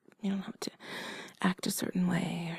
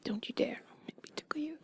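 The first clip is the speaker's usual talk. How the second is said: playful, higher whispered warning; teasing higher threat; 7 semitones higher, 6 dB quieter than usual. Acted. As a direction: tease them, pitch rising. Escalated tickle threat.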